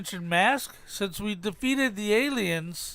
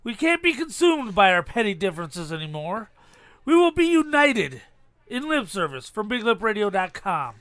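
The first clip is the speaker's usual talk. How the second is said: movie speech impression. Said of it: "Guess what movie I've taken this from".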